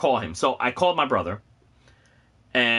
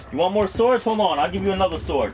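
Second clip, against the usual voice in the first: teasing; 6 semitones higher than usual. Acted. Teasing reply to chat.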